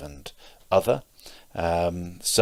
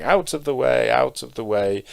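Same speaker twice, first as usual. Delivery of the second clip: retold shout, raised and louder; mahout's shout; 6 semitones higher, 6 dB louder than usual. Mahout atop the elephant clearing the street, shouting. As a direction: call out a warning to clear the path. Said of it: "mahouts sitting on top shouting".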